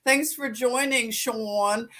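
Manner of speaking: light Philly greeting with Sean as "Shawn"; a hint of a Philadelphia accent, friendly; casual Philadelphia accent greeting a viewer. Shown as a demonstration. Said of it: "like a Philadelphian".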